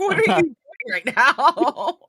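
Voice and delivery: high, loud, drawn-out disbelief; hammed-up horror, stretched and loud; mock horrified. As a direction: cry out appalled, half laughing. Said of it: "Even Des is horrified".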